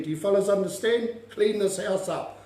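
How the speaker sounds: lightly acted household order; telling off the kuri. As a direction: briskly check they understood the order. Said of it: "when you say to those kuri".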